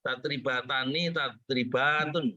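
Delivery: slow, stretched Tadribatani, tadribatun; careful recitation. Shown as a demonstration. Student reciting nicely for the teacher, slow and drawn-out. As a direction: softly draw out each long vowel. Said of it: "bacanya yang bagus".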